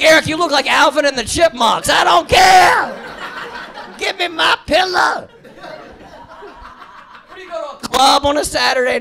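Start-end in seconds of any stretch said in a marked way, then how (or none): 0.0-5.3 sleepy Ambien user. Pretend. Drowsy Ambien user replies.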